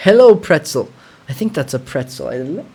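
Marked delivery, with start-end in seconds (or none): 0.1-0.9 bright, loud higher hello to a viewer; greeting a chat viewer, loud and delighted; excited greeting. Real, not acted. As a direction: call out hello, pleased. Greeting viewer named pretzel.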